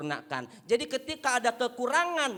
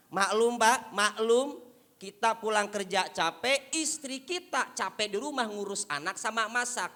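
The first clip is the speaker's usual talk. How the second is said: ordinary talk, nothing marked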